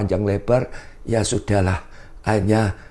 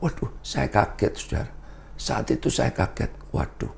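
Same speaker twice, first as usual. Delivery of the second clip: startled; 7 dB quieter than usual. Retold or imitated. Startled by the pastor's rule.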